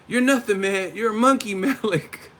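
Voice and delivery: high, loud mock taunt; Remy. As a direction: do a high-pitched rapper taunt. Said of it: "Remy and Higher Learning".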